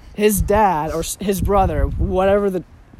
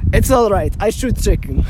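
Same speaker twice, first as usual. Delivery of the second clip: mock Russian accent, lightly put on. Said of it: "it sounded like you put on a Russian accent there".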